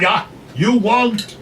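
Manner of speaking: high, slow, scoffing madam voice; mocking madam. Madam mocks the grandmother's wants, slow and high. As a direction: drag out the mockery. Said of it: "says the manager".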